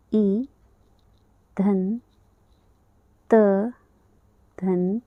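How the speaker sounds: each letter sounded apart with long pauses; letter by letter, like a teacher at the board; sounding out letters. Shown as a demonstration. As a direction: spell the sounds one by one, slowly. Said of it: "तो हम इसे इस तरीके से लिख सकते हैं".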